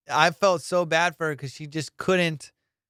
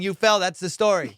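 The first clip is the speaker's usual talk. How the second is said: loud, pointed reminder; feed her the line, insistently; coaching insistence; 3 semitones higher, 4 dB louder than usual. Retold or imitated. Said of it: "telling her what to say".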